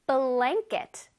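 "blanket" with its first syllable BLAN stressed. Shown as a demonstration. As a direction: lean on BLAN, then let "ket" fall. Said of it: "B L A N 부분에서 강세를 줘야 돼요".

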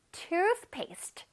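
"toothpaste" slowly, with a th in the middle; th sound in toothpaste. Shown as a demonstration. Teacher models a new word for children, careful th. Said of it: "중간에 뜨 발음 있다".

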